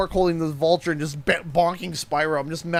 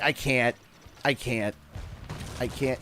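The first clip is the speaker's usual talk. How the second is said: trailing off softer each time; fading I can't; 6 semitones lower, 9 dB quieter than usual. Retold or imitated. Retelling losing it on stream, fading out. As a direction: give up, fading to nothing. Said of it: "I'm like".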